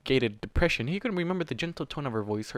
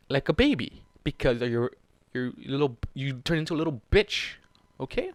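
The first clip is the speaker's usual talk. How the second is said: angry lecture; 4 dB louder than usual. Real, not acted. Reader scolding Warden to face his fake wife, angry. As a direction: tell him off like a friend.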